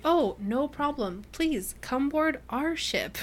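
slow, high, innocent welcome; overly polite. Retold or imitated. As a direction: lay on the fake courtesy.

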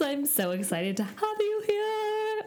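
sweet sing-song host welcome. Real, not acted. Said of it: "are you sick of my sing-song voice already?".

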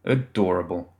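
plain reading voice

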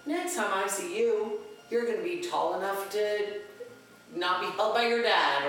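a hint of a high, slow character voice; Mickey. Mascot to parents holding babies, lightly imitated high cartoon voice. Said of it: "what the old Talking Mickey used to say".

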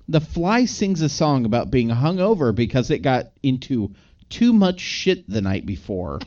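measured read-out in separate phrases; deliberate recital of written recap notes; reading notes aloud. Real, not acted. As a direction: read it word for word, pausing between chunks. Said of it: "let me read exactly what I wrote".

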